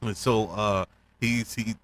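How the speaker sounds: usual speaking voice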